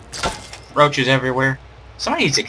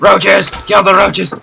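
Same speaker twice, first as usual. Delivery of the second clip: excited call; 7 semitones higher, 6 dB louder, slower than usual. Real, not acted. Spotting enemies in the game.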